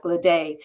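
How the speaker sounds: Ledet said the French way, like "luh-DAY"; French pronunciation. Shown as a demonstration. Guest spelling out her website explains her surname, Ledet pronounced the French way as "luh-DAY". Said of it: "gotta pronounce it the French way".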